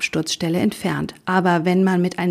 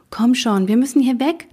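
urging; 5 semitones higher than usual. Acted. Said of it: "drängelte ich".

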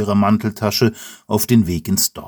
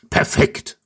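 grunt. Acted. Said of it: "grunzt Eberhard".

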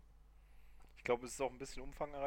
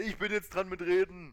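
mock loud claim; 6 semitones higher, 13 dB louder than usual. Claiming turn with talking ball.

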